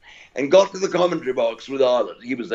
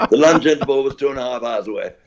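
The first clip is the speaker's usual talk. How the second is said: laughing; faster than usual. Real, not acted. Laughing at the memory.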